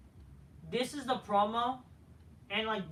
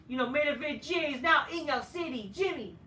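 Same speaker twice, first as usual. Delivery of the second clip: much higher, loud hyped-up wrestler promo; Jey Uso promo voice; 8 semitones higher, 4 dB louder than usual. Retold or imitated. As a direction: call out your twin brother like a cocky wrestler cutting a promo. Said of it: "Jey Uso comes and says".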